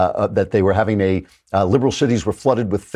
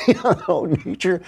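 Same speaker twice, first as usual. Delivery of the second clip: laughing; 9 semitones higher than usual. Real, not acted. Laughing at own joke.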